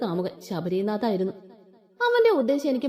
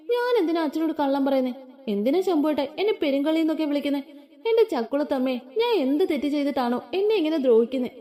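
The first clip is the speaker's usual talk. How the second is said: fake crying; 4 semitones higher than usual. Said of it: "കരയുന്ന പോലെ act ചെയ്ത്".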